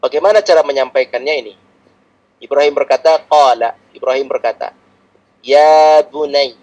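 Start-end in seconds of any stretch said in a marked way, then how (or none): 5.4-6.5 tender call. Shown as a demonstration. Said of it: "panggilan lembut".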